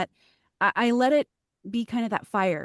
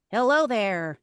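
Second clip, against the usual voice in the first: broken robot; 3 semitones higher, much slower than usual. Shown as a demonstration. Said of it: "the robot was just like".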